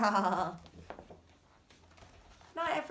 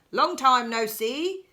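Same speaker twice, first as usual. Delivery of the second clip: hare; 7 dB louder than usual. Acted. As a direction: greet an old friend brightly. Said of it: "says Hare".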